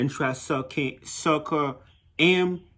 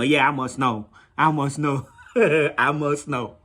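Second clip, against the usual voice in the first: laughing retort; slower than usual. Real, not acted. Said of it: "teasing retort".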